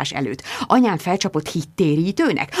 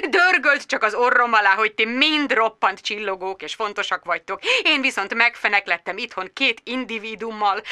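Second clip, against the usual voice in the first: sarcastic friend. Acted. Magda grumbling sarcastically to busy Bridget.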